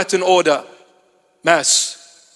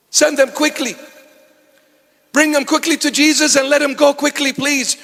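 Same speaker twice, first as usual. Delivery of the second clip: impatient churchgoer; 3 semitones higher than usual. Retold or imitated. Voicing impatient churchgoers pleading.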